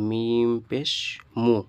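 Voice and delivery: "মিম পেশ" drawn out, then "মু"; spelling demonstration. Shown as a demonstration. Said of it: "এখানে দেখুন".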